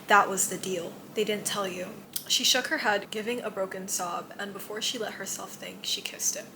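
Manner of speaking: soft, steady book reading; hushed story narration; reading aloud. A narrator's reading. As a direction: read the passage quietly to yourself and the viewer. Reads book passage aloud.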